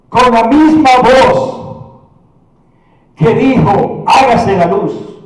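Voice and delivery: emphatic voice of divine authority; ringing sermon build-up; commanding preaching. Acted. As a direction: proclaim each command with force.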